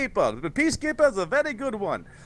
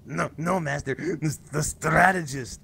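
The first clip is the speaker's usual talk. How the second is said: Igor; 5 semitones lower than usual. Acted. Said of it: "Igor, help me out with this one".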